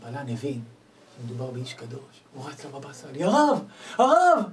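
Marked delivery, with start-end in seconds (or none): 3.2-4.4 high, loud, slow calling out; excited call. Retold or imitated. Attendant runs to the rabbi, calling out in excitement. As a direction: call after the rabbi in awe.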